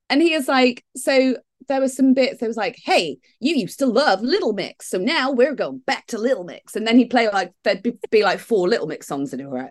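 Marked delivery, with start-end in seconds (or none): 2.8-6.8 mock New York DJ patter; New York accent. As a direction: put on a New York radio host. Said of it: "I think he's more New York".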